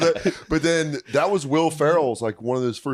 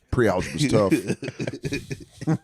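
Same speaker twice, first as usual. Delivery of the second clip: put-on slow mopey kid; 2 semitones lower, much slower than usual. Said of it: "being like".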